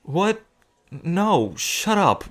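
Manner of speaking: high, defensive yelp; flustered denial. Acted. Teased about being overprotective, flustered denial. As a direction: deny it too fast, caught out.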